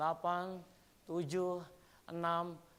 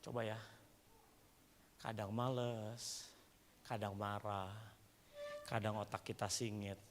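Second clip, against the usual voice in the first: low, soft confessional musing; hushed, lower-pitched self-examination; subdued preaching; 7 semitones lower, 9 dB quieter than usual. Real, not acted. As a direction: confide it quietly to the congregation. Subdued confiding reflection while preaching.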